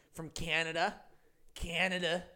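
a clumsy, hammed-up Canadian accent on From Canada; bad Canadian accent. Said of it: "That's not a good accent".

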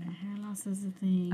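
slow, whispered repeat; slow whispered echo. Real, not acted. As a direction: echo it back softly and slowly. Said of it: "repeated phrase".

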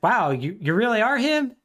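high, mock-amazed flattery; fake compliments. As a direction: gush with put-on amazement. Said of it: "paying some very fake compliments".

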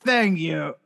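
lightly put-on Eastern European accent. Anthem singer thanking the crowd, Eastern European accent. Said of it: "Eastern European man".

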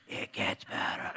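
soft, voiceless stage whisper; mock whisper. Pastor repeating his joke in a mock whisper. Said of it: "Like, why are you whispering?".

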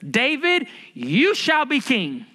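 high, ringing pronouncement to David; divine proclamation. Acted. God promises David the throne, proclaiming. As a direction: declare it slowly, as God crowning him. Acting out God's declaration to David.

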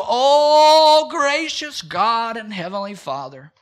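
high, loud, hammed-up groveling old man praying; mocking a self-abasing old man at prayer; mocking old man's prayer. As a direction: ham up an old churchman begging God. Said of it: "He would go".

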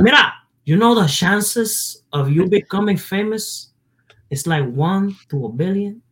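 put-on high, slowed Puerto Rican dad accent; dad's Spanish accent. Son mimics dad warning against music, high Spanish accent. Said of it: "where he gets that accent from".

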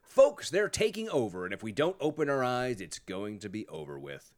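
lightly mocking Southern politician's accent. Host quotes the politician's warning, in a mock Southern accent. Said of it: "I am using the Southern accent".

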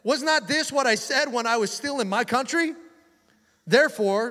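high, indignant mock prayer; Jonah, angry. Prophet complaining to the Lord, mock-angry. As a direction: protest to God in acted anger. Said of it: "he becomes angry".

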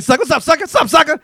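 high playful greeting; sing-song greeting. Retold or imitated. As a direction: chirp it like a chant. His own greeting.

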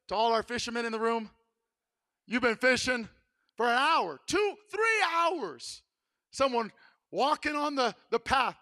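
ordinary talk, nothing marked

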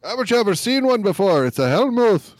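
high put-on voice, "Hellmouth" as "hell-mooth"; high comic query ending on "Hellmouth" rhymed with tooth; mock pronunciation. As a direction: pitch it way up, "Hellmouth" with a long oo. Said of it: "that's not how it's pronounced".

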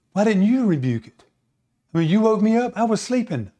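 mock exasperated scolding; exasperated complaint. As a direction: complain like someone roused from sleep. Jesus complains at being woken.

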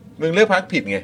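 slow mocking sneer. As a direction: drag it out, taunting. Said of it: "อีลิทอะที่พูดแบบว่า".

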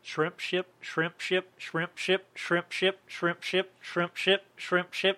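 robotic monotone repetition. Real, not acted. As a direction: chant it like a robot. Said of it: "you sound like a, a robot".

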